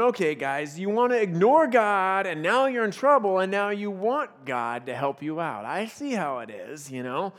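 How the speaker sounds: sarcastic. Retold or imitated. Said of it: "he kinda smart aleck".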